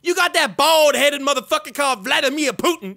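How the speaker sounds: a put-on rapper voice, brash and cocky; a famous rapper impression. Trash-talking strangers in game chat, brash rapper voice. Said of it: claims a famous rapper's name.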